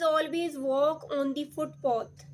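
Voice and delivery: slow instruction, dropping on "footpath"; falling intonation. Shown as a demonstration. Teacher models a command for learners, falling at "footpath". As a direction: let the voice fall at "footpath". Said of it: "falling".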